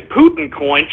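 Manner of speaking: rising, disbelieving repeat of Putin coin?; incredulous echo. Shown as a demonstration. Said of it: "Shut up with the freaking Putin coin".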